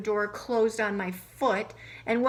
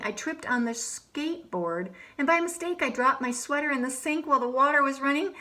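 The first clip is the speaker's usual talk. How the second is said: put-on lively first-person storytelling as a fed-up boy; story narration as Alexander; 3 semitones higher than usual. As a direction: tell it like a grumpy kid recounting his day. Reads in Alexander's voice.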